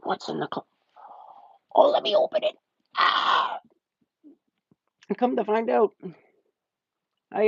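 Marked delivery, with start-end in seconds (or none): 0.0-3.6 mock scared heroine. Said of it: "she's like".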